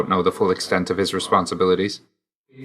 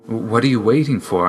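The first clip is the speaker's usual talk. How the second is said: more pressing, insistent question; insistent repeat; 3 semitones higher than usual. Acted. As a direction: press for an answer, with mild urgency.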